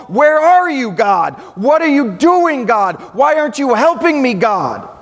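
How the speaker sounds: rising cries of where are you, God, each falling on God; pleading yell at God. Retold or imitated. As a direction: cry out to God in frustration. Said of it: "we want to yell".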